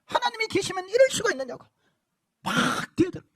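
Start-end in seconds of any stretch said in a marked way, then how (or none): 0.0-1.6 high accusing cry; damned soul accusing God; railing at God. Retold or imitated. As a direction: shake a fist at heaven. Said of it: "삿대질을 하면서".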